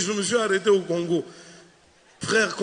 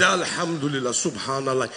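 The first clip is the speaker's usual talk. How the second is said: low murmured prayer; praying imam; 9 semitones lower, 4 dB quieter than usual. Retold or imitated. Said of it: "Il a prié tout le vol". (imam qui murmure sa prière)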